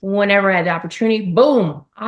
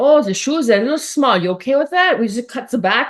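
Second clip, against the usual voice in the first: high-pitched, put-on German accent; 5 semitones higher than usual. Retelling what people on a shoot told her about her shoes, in a put-on german accent. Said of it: "the German accent".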